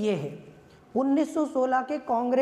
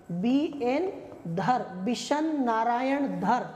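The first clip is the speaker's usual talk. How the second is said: slow dictation of a name; slower than usual. Shown as a demonstration. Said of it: "इस बार अध्यक्ष का नाम है बी एन धर".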